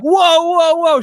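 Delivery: high, loud whoa whoa whoa; super excited. Pretend. Host jokes about greeting iJustine, super excited. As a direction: burst out in mock over-the-top excitement. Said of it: "should I just go super excited".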